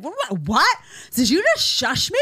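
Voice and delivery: indignant woman snapping back; mock angry retort after being shushed; mock outraged woman. Shushed woman snapping back in mock outrage. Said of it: "rip your head off".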